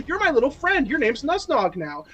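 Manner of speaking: cooing to goblin. Retold or imitated. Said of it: "I said".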